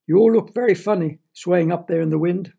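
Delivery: high, loud teasing; amused mockery. A narrator's reading. Firemen laughing at people stuck up a tree, teasing. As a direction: tease them loudly from below. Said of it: "stood in a circle around the tree and laughed".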